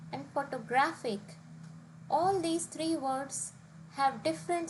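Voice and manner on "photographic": "photographic" as photo-GRA-phic; "photographic" with the weight just before -ic; stress on second-last syllable. Shown as a demonstration. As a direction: hit the GRAPH in "photographic". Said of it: "has stress on the second last syllable".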